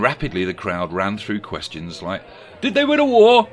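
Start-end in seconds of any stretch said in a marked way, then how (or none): 2.6-3.5 very high, loud questioning voice; high party guest voice. A narrator's reading. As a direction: pipe up eagerly.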